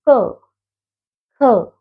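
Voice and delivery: क and ख sounded clearly from the throat, one by one; sounding out letters. Shown as a demonstration. Teacher sounding out throat letters for students, clear and deliberate. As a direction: say क, then ख, each letter slowly and deliberately. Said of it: "आप बोलकर देखेंगे".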